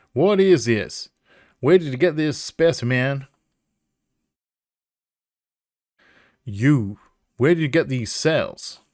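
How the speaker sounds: demanding southern professor; southern accent. Acted. Professor demanding where the specimen came from, southern accent. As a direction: question them sharply in a southern accent. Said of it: "I don't know why it's a southern accent".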